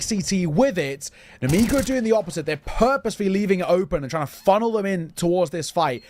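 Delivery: lively play-by-play commentary; esports caster. Acted. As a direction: call the action like a caster. Live play-by-play casting.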